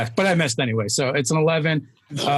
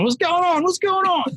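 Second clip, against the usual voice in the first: confused. Real, not acted. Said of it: "I feel like I'm missing something".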